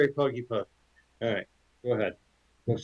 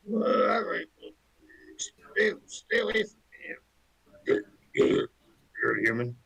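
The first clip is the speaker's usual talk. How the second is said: spooked talking horse; 7 semitones higher than usual. Retold or imitated. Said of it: "So he's like".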